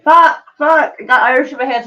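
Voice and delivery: high, frustrated outburst at herself; flustered cursing. Real, not acted. Streamer botching a Scottish accent, curses high and flustered. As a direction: curse as the attempt falls apart.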